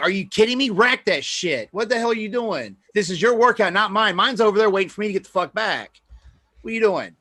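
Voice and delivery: angry scolding. Retold or imitated. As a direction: chew him out across the gym floor. Retold scolding of a client.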